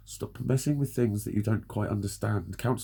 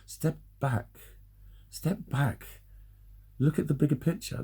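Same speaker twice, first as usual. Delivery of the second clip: mimicking advice; 3 dB quieter than usual. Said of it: "People have said".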